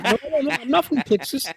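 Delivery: very high mock Asian accent; thick Asian accent. Agent denying he is from Texas, high mock Asian accent. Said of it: "his accent was so thick".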